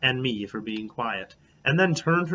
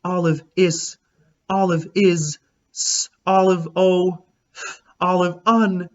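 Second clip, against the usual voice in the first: lightly voiced dreamy girl, a bit higher and louder; dreamy sigh; 6 semitones higher, 5 dB louder than usual. A narrator's reading. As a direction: swoon over her new friend. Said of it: "she sighed".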